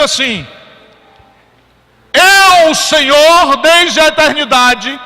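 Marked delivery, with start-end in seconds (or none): 2.1-5.0 God speaking. Acted. Voicing God's words.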